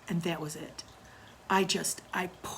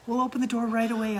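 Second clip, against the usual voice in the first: promising; 5 semitones higher, 7 dB louder, faster than usual. Retold or imitated. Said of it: "I said".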